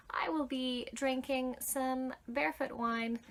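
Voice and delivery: usual speaking voice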